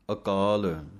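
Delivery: ਅਕਾਲ with a short ਅ, not a long ਆ; short first vowel. Shown as a demonstration. Teacher models ਅਕਾਲ for students with a short first vowel. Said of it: "ਇਹਨੂੰ ਆ ਕਾਲ ਨਹੀਂ ਪੜ੍ਹ ਜਾਣਾ".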